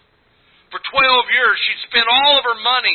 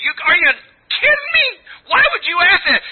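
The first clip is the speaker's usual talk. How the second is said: preaching shout; 7 semitones higher, faster than usual. Real, not acted. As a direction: belt it at the congregation. Preacher erupts in mock disbelief.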